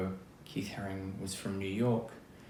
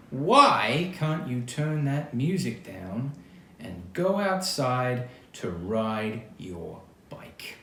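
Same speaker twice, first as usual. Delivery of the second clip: slow, loud mock yell over music; mother yelling; 3 semitones higher, 7 dB louder, slower than usual. Mother yelling at teen son over music, mock yell. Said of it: "His mother had to yell over the music".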